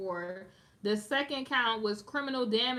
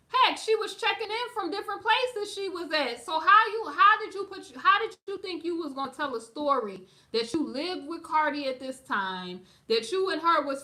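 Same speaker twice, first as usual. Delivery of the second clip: heated; 3 semitones higher, 3 dB louder than usual. Real, not acted. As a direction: rail at her, really fired up. Heated rant at the girl.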